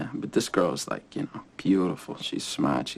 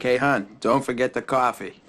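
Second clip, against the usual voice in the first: raised, higher voice calling up the aisle; passenger calling out; 5 semitones higher, 4 dB louder, slower than usual. Acted. Passenger to stewardess from the back of the plane, calling out. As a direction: call it out like a heckling passenger. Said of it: "This guy in the back of the plane's like".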